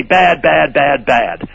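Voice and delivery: a touch of mocking scold; mocking nag. Onceler mocking the Lorax's nagging, mild mockery. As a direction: mimic his nagging. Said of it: "yap and say".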